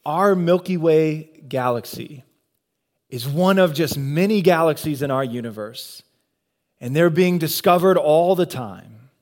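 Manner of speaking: lightly imitated nature-documentary narrator; hint of a measured, polished narrator voice. Documentary narrator introducing the galaxy to viewers, lightly imitated. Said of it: "that perfect narrator voice".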